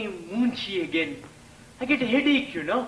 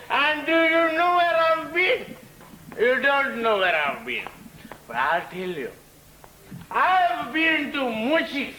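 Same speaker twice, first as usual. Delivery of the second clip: put-on a merry drunk calling out to everyone, laughing; tipsy boasting drunk; 3 semitones higher than usual. Mister Bansi to the people, tipsy and laughing. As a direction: play a giggly boasting drunk. Drunk man announcing himself.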